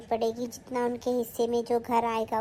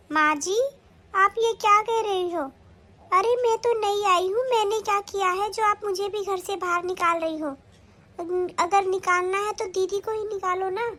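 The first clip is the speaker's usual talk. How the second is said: shocked protest; 5 semitones higher than usual. Acted. New daughter-in-law protesting to mother-in-law, high and indignant. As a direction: plead your innocence, high and hurt.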